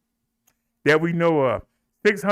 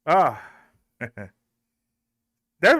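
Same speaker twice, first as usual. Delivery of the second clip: laughing. Real, not acted. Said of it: "putting on a performance".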